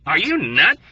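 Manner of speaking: shouting. Acted. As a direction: shout it at him in disbelief. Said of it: "Yossarian shouted".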